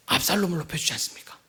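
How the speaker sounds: hushed aside to the congregation; whisper. Real, not acted. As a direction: lean in and whisper the question. Rhetorical question to congregation. (속삭이듯 묻기)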